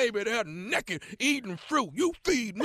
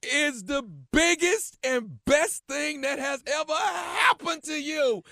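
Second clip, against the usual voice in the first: emphatic rave; 5 semitones higher than usual. Real, not acted. Co-host answering the letter writer about his wife, emphatic rave.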